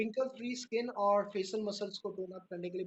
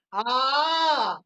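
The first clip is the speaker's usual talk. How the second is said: yoga shout; 3 semitones higher, 8 dB louder than usual. Shown as a demonstration. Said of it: "big smile".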